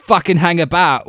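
suddenly hollers the phrase like a startled examiner; sudden outburst. Retold or imitated. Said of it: "was his thing".

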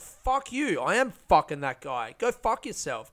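angry outburst. Retold or imitated. Comic reliving his rage at a doubting guy, high furious curse. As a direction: let the anger burst out. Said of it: "It really made me angry".

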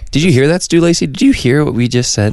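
high-pitched mock challenge; calling him out. Calling out a friend on the podcast, high mock challenge. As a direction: pointedly address an absent listener. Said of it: "I'm calling him out right here".

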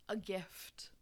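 soft breathy whisper. Real, not acted. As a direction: whisper it like a secret. Offering the reading as a gift.

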